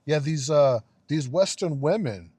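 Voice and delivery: half-manage a European accent in mockery. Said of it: "I can't even do the accent".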